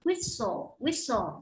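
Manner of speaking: Whistle as wissle, t left out; silent t. Shown as a demonstration. Teacher repeats Whistle for students to copy. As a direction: say Whistle with no t at all. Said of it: "không đọc âm chờ nhá".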